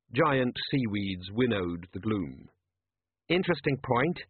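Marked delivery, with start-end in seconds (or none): 3.3-4.2 quavered. Acted. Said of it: "quavered Colon".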